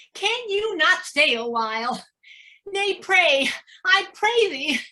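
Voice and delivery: mock pleading. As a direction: mimic the girl's eager begging.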